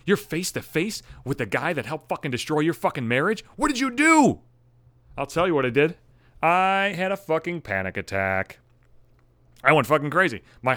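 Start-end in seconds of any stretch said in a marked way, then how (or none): 0.0-4.4 mock viewer alarm. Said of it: "You might be thinking".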